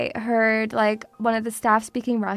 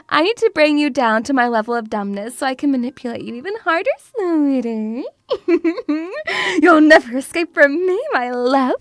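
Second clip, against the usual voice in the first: hammed-up villain, fast then loud; mock villain; 3 dB louder than usual. Mamushka threatening her pups, hammed-up villain. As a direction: menace them playfully.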